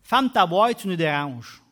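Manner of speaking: loud Québécois shut-up; annoyed crowd. Retold or imitated. Crowd silencing the blind man, a loud Québécois rebuke. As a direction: brush off the beggar rudely. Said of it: "en québécois, on dirait".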